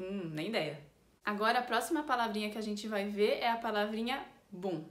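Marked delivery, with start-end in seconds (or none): 0.0-0.8 lower, hesitant "Hum"; pondering. Shown as a demonstration. Teacher translates the unsure gift answer, pondering. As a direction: muse briefly, then give up. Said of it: "pensar um pouco e falar".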